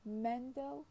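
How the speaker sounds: Mendel stressed on MEN; stress on first syllable. Shown as a demonstration. Lecturer reads out an example word, stress on first syllable. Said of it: "stress in Mendel is on the first syllable".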